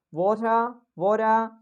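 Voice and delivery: "water" twice, British, R dropped; British accent. Shown as a demonstration. Teacher repeats the example for students, British accent. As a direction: leave the R off "water", British style. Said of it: "If we'll talk about British".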